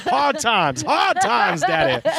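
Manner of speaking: squeaky high put-on voice, drawn out; high, slow, hammed-up whine; mock high voice. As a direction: play a whiny character lamenting hard times.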